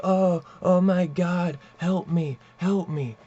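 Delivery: mock panic. Bully fakes injury to fool the lady, hammed-up panic. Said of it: "she's like".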